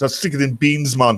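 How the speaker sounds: lightly voiced Jamaican man; Jamaican accent. Jamaican prisoner explains to cellmates, lightly put-on Jamaican accent. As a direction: put on a casual Jamaican lilt. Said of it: "And the Jamaican goes".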